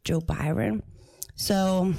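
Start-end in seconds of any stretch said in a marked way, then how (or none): 0.0-0.8 "Joe Byron" said deliberately as BY-ron instead of Biden; name him "Joe Byron", rhyming with Byron; joking mispronunciation. Pretend. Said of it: "Joe Biden".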